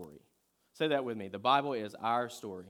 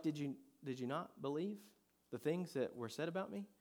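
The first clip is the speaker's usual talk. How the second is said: softer, slightly higher retold question; softly imitated teacher's question, rising; gentle questioning; 4 semitones higher, 6 dB quieter than usual. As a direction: gently quiz them, voicing Jesus. Jesus gently questioning the travelers.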